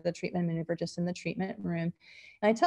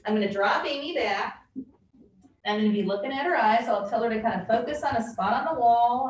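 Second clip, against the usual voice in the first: cheerleader voice; 2 semitones higher, 3 dB louder than usual. Shown as a demonstration. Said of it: "I'll try to do my cheerleader voice".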